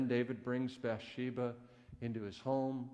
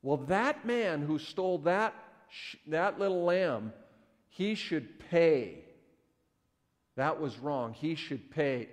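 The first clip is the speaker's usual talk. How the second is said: incensed; 3 semitones higher, 5 dB louder than usual. Retold or imitated. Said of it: "David becomes incensed".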